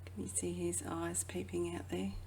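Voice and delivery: hushed whisper, as if not to wake the cat. Acted. Reader to child, pointing out the hiding cat, whispering. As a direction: breathe it, conspiratorial.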